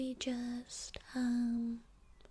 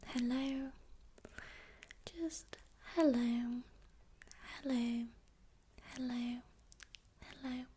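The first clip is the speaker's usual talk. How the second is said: soft spoken. Shown as a demonstration. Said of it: "So you can just say".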